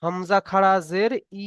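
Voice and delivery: "ই" stretched into a long, steady vowel at the end; drawn-out vowel. Shown as a demonstration. Teacher answers own pronunciation question, final "ই" drawn out. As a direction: spell it out, then hold the final "ই" long. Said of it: "জেরের উচ্চারণ হবে কি".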